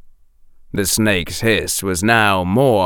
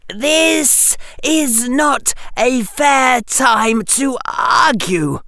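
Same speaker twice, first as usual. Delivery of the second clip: mild; 14 semitones higher, slower than usual. A narrator's reading. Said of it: "Harry observed mildly".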